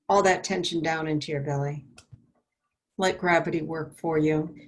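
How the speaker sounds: measured meditation guide with long pauses; guided meditation. Acted. Meditation leader guiding listeners to drop tension into the belly, calm guided pacing. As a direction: lead them through it in unhurried phrases, leaving space to breathe.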